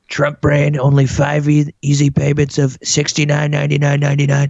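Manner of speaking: pushy TV ad pitch; hard sell ad. Pretend. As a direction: sell it like an infomercial. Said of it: "looks like you've made that yourself".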